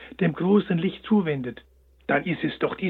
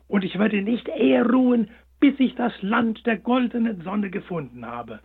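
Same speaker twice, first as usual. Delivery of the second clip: determined hare; 5 semitones higher, 4 dB louder than usual. A narrator's reading. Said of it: "sprach er selbst sich Mut zu".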